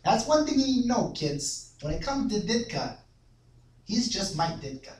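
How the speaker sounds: Chicago sportscaster parody drifting into odd Russian; put-on accent, oddly Russian-tinged; Chicago accent slipping Russian. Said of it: "weird-ass Russian accent".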